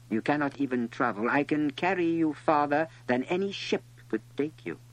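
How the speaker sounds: understated snake character, proudly insistent; boastful snake. A narrator's reading. Snake tells the little prince of its power, mildly boastful.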